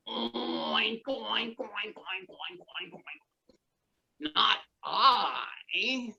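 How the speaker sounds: playful oinking pig; a string of silly oinks. Acted. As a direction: oink like a dancing pig. Pig refuses again.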